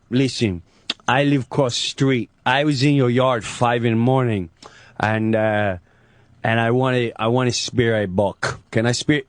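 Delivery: low, halting Godfather-style creep; imitating the pizza guy. Pizza guy asking neighbor to hunt in his yard, low creepy impression. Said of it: "he talks like this".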